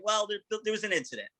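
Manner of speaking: high, softened, stumbling admission; hesitant admission. Retold or imitated. Telling Bill on the phone about the van, hesitant and high. Breaking bad news to boss.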